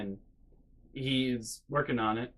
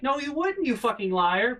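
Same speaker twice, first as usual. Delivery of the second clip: much higher, sharp retort to the sister; mock angry retort; 10 semitones higher, 4 dB louder than usual. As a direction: call her a liar with heat. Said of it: "And I'm like".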